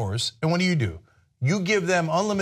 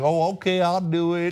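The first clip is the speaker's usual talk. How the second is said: mock hapless candidate; 3 semitones higher than usual. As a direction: play a clueless pushover saying yes. Mocks the willing hapless candidate.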